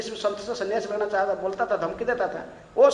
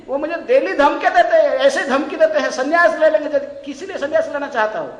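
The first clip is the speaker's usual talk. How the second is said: louder, higher, urgent complaint; pleading complaint; 5 semitones higher, 8 dB louder than usual. Retold or imitated. Wife telling the sage about her husband's threats, agitated.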